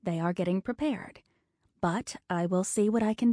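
soft, gentle nurse's voice; quiet comforting. Acted. Nurse comforting the frightened wife, soft and gentle. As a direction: soothe a scared wife softly. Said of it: "speak in a quiet, comforting voice".

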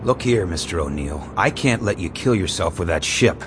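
earnest. A narrator's reading. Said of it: "said it earnestly and loyally".

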